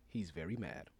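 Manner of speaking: whispered aside; host whispering an aside to listeners. Real, not acted. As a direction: drop to a whisper for the punchline. Aside about the Mad Podcaster.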